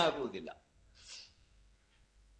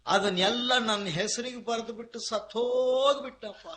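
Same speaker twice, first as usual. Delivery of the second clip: mock wailing; 5 semitones higher than usual. Heir bewailing grandfather's death to his friend, mock wail. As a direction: imitate a man crying over his inheritance. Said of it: "ಅಂತ ಇನ್ನ ಜೋರಾಗತ್ತ".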